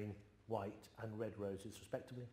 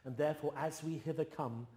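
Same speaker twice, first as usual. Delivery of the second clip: measured, slightly raised royal address, unhurried; King Henry recited; 2 semitones higher than usual. Acted. Young king pleading with quarrelling lords, stately measured recitation. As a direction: speak as a young king calming feuding nobles. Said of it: "Henry the sixth attempts to patch it up".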